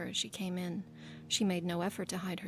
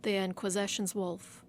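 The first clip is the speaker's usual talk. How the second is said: a smug, smirking correction. Acted. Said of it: "the assassin smirked".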